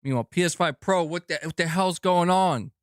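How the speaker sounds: high, teasing rant; mock outrage. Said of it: "I'm busting your balls".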